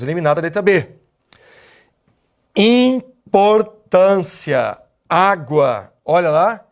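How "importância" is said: "Importância" said very slowly, weight on "tân"; teacher stretching a word to show stress; slow stress demo. Shown as a demonstration. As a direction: draw out "Importância" to mark the stressed syllable. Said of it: "Aqui eu tenho a tônica penúltima".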